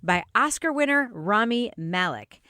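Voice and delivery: measured podcast presenter read; scripted intro read. Acted. Host introducing the drama under review, scripted presenter read. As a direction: present the show from a script, phrase by phrase.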